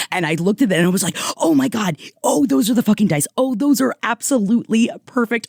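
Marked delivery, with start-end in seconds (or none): 1.4-5.5 gushing with excitement, higher pitch; fast, delighted outburst over a find; thrilled and gushing; excited. Retold or imitated. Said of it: "I was so excited".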